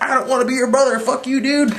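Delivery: lightly voiced bratty Loki; sulky Loki. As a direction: spit it out like a bratty brother. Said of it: "and he's like".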